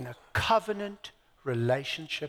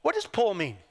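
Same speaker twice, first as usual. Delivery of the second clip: poor said the Australian way, almost pol, with a higher lift; What does poor mean with poor flattened Australian style; Australian accent; 3 semitones higher than usual. Shown as a demonstration. Preacher tries the Australian way of saying poor. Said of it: "I'm trying to say it like Australians".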